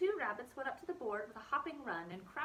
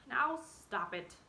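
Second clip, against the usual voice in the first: slow, loud and firm; firmly; 3 semitones higher, 6 dB louder, much slower than usual. Acted. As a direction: put a stop to it, slowly. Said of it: "said Hazel firmly".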